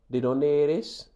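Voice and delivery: ¿De dónde eres? slow with a rise on eres; slow model question. Shown as a demonstration. Teacher modelling the question for students, slow and clear.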